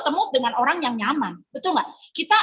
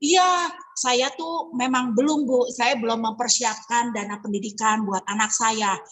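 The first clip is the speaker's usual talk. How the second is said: quoting a hesitant client; 5 semitones lower than usual. Retold or imitated. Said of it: "misalkan gini".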